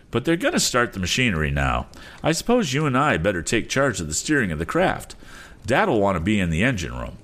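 high-pitched lad making plans; eager young inventor. Acted. Voices young Tom.

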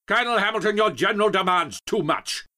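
high, loud outraged protest; indignant pompous general. Acted. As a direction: bluster at a junior officer. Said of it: "Gates stormed back and forth".

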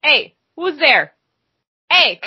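high, slow Minnesotan call; hammed-up Minnesotan hunter; Minnesotan accent. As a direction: call out to a stranger in mock Minnesotan. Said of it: "worst Minnesotan accent I've ever done".

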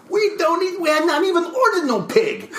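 high, hammed-up French chef accent; mock a French chef's complaint. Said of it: "he would say in his thick French accent".

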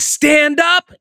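sharp high barked command; retold yell. Coach yelling at seated trainees: a high sharp shouted order. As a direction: snap the order like a drill coach. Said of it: "somebody yelled at you and said".

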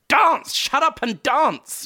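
high yelled order to dance; pushy Jewish mother. Retold or imitated. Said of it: "a Jewish mother standing at the edge".

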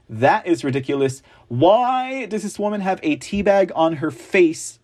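normal talking voice

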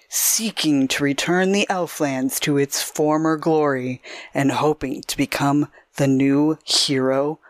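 dramatic trailer narrator read; movie trailer guy voice. Acted. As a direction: intone it like an epic film trailer. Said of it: "I'm gonna try my movie trailer guy voice on it".

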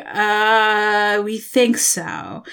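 drawn-out, unsure reply; hesitant quote. Retold or imitated. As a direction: mimic someone hedging slowly. Acting out the unsure bookseller.

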